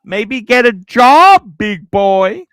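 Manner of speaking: loud, drawn-out Australian delivery; pure Australian. Acted. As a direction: belt it out in broad Australian. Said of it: "I'm hearing pure Australia".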